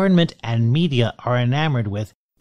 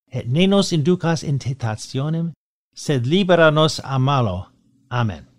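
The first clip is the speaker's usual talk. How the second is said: steady, devout recitation of the prayer. Acted. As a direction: pray it evenly, as at Mass. Recites Pater Noster.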